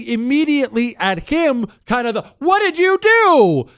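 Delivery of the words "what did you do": a high, loud mock shriek of blame; imitating her scream. Wife shrieking at her husband over the knocked-out dog, mock scream. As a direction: retell the wife's panicked scream, much higher and louder. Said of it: "She screams bloody murder".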